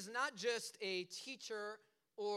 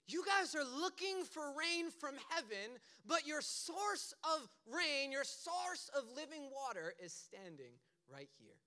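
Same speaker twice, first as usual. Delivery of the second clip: higher, slow proclamation; raised-pitch, drawn-out public declaration; crying out; 3 semitones higher, slower than usual. Acted. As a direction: proclaim it slowly to a whole crowd. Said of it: "He cries out".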